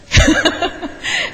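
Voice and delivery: short airy laugh, rising; a quick amused breath of a laugh; breathy laugh. Real, not acted. Speaker laughing at her own joke, breathy laugh.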